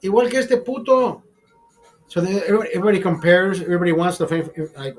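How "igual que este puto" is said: much higher Spanish slang outburst; eager exclamation. Retold or imitated. Another member wanting the same deal, much higher outburst. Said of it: "another guy says".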